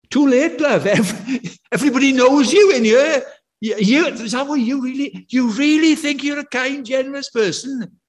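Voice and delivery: high, loud laughing jibe; amused mock scolding; laughing retort. Laughing retort to church member.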